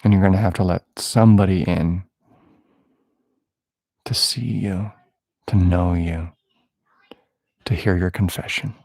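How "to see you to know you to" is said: whisper. Acted. Preacher drops to intimate whisper.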